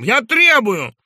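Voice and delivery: insist, shaking; doctor demanding release; trembling demand. Acted. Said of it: "дрожа всем телом".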